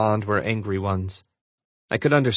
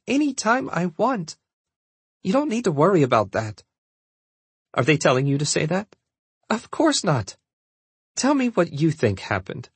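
patient daughter reassuring her mother, higher voice; higher-pitched, patient insistence; 6 semitones higher than usual. A narrator's reading. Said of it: "sounding far more patient".

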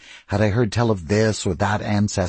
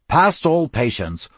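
gruff approval; 5 semitones higher, slower than usual. Acted. Cyril repeats the phrase approvingly.

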